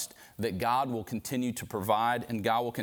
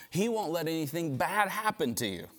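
a touch higher, unhurried tempting dare; coaxing him to jump, lightly voiced; Satan's taunt; 3 semitones higher than usual. Satan daring Jesus to prove his sonship, mild taunt. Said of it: "He's basically saying".

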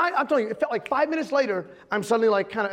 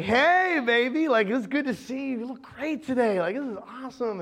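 lightly acted drugged sweet-talk; mock woozy flirting; 3 semitones higher than usual. Sedated husband greeting his wife, goofily affectionate.

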